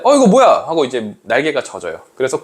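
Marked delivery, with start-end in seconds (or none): 0.0-0.5 high, louder burst of surprise; acted startled exclamation; startled butterfly. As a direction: caught off guard on landing. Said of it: "무밭인 줄 알고 내려갔는데".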